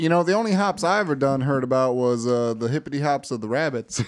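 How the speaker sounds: put-on country twang; country accent. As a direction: play the folksy country yokel. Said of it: "I started doing my country accent".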